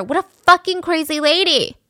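high shouted insult; mock angry shout. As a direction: shout at the spitting woman. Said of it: "he screams at her".

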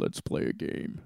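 eerie whispered doll voice; too calm creepy doll. Retold or imitated. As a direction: whisper it like the Saw puppet. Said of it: "that's from the Saw movies".

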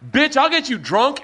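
high, wild mock yell; a hammed-up high friend's voice; Patrice impression. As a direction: squeal it out like a rowdy friend. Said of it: "And Patrice is like".

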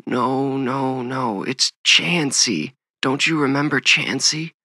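high, pleading voice on the edge of tears; trembling, tearful mother. A narrator's reading. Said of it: "his mother's trembling voice, her audible tears".

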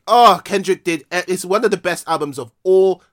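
loud, impassioned venting; emotional exasperation. Real, not acted. Host praising a rapper's snubbed album, emotional exasperation. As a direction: push each phrase out with feeling. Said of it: "I'm still getting emotional about it again".

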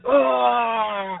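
a quick mock male scream cut off; man's scream. Recalling the man screaming in the canyon, a short mock yell. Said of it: "the guy screams".

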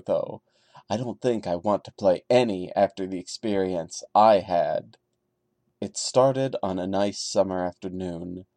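steady storyteller read of a first-person horror tale; story narration. A narrator's reading. Reading a creepypasta aloud to viewers, calm narration. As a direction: tell it like a campfire creepypasta, calm and measured.

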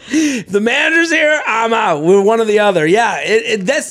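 high, huffy, slowed first words; customer impression. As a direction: play the offended diner. Mocking a demanding diner.

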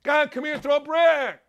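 lightly mock a cheery parade guy; mocking the pride guy. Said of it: "this guy's like".

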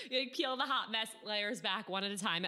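laughing. Real, not acted. Laughing along with guest.

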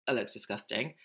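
begrudging daughter. Retold or imitated. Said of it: "eldest daughter was very begrudging".

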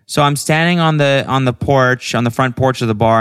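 high, oblivious friend voice, easing down; Bridget on the phone. Retold or imitated. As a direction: imitate a friend reporting where they stand. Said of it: "she's like".

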